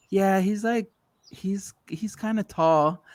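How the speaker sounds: lightly whispered, halting and drawn-out; imitated overheard aside. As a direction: mimic someone confiding in a slow half-whisper. Friend's overheard aside being retold.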